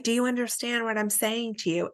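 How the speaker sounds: kind, sincere question to a client; caring counselor checking understanding; gentle check-in. Shown as a demonstration. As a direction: ask it gently, not talking down. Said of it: "you don't wanna say it in a condescending way".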